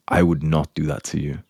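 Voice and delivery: measured, completely certain denial; pure certainty. Acted. Boyfriend reassuring his suspicious girlfriend, with pure certainty. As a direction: deliver it steady, with no doubt at all. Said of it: "With pure certainty, you say that".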